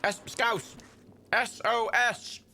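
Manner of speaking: high-pitched distress call; calling for help. Real, not acted. Gamer calls Scouse Jimmy for rescue, plaintive distress call. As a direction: send out an insistent, plaintive SOS.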